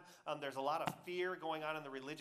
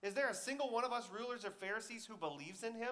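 higher-pitched scornful challenge; mocking; 6 semitones higher than usual. Pharisees speaking for all seventy rulers, mocking. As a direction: challenge them with disdain. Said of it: "the Pharisees mocked".

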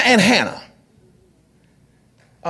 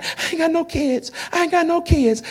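mock crying; 5 semitones higher, 6 dB quieter than usual. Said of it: "so she crying".

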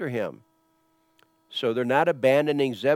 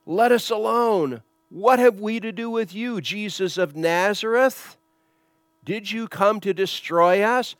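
high, raised demon voice; demon crying out; 6 semitones higher, 5 dB louder than usual. Retold or imitated. Unclean spirit confronts Jesus of Nazareth, crying out high. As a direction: wail it out, drawing out the last words. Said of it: "cried out, saying".

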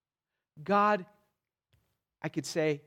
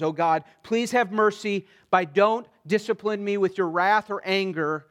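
a fervent plea, a little louder; crying out to God; 2 semitones higher, 5 dB louder than usual. Retold or imitated. David pleading with God for mercy, fervent plea. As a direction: voice David's anguished plea, pressing. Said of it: "David cries out".

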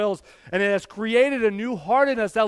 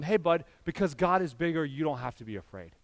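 put-on gentle reassurance to a child; 2 semitones lower, 4 dB quieter than usual. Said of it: "And I'll tell them".

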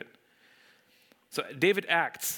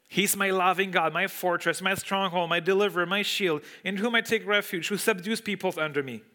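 emphatic scripture reading; 4 semitones higher than usual. Acted. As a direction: proclaim each name of God with conviction. Reading psalm aloud with force.

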